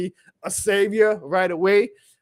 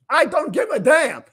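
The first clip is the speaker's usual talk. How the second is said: higher and louder, hitting I hard; real defiant outburst; fired-up shout; 7 semitones higher, 5 dB louder than usual. Real, not acted. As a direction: repeat it raised to a near yell. Fired-up rant after a win.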